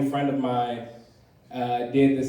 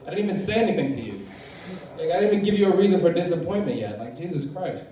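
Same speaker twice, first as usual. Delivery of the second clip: exasperated reply; 4 semitones higher, faster than usual. Retold or imitated. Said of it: "And I'm just like".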